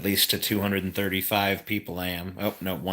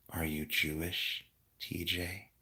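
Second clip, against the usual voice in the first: calm voice; 7 dB quieter than usual. Pretend. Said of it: "read the chat in a really calm voice".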